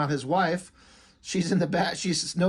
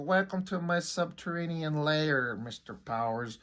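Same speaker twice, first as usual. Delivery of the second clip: a hint of a smug villain welcoming his captive; Doctor Evil; 5 dB quieter than usual. Reviewer jokingly voicing a villain greeting a captured hero, understated. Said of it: "like, Doctor Evil".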